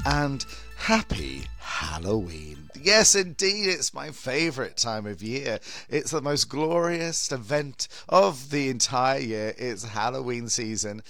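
big theatrical horror-host welcome; campy drag queen. Acted. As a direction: camp it up, swooping and grand.

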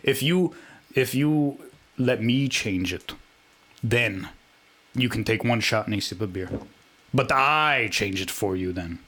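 put-on French-Russian accent. Co-host keeping up his voice, put-on French accent. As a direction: lay out the rule in deliberate, muddled French-Russian accent. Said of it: "I don't mind staying like this".

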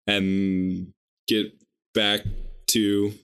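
choppy word-by-word speech; staccato. Real, not acted. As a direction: say it one halting word at a time. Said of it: "You're getting worse".

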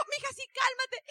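soothing mother. Retold or imitated. Mother soothes crying daughter.

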